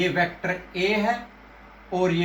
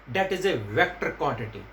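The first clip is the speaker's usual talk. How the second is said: slow dictation; 5 semitones lower, 3 dB quieter, much slower than usual. Shown as a demonstration. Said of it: "teacher stresses the rule slowly".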